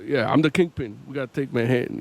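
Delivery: a hint of a low Kingpin, at talking volume. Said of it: "it's an artistic choice".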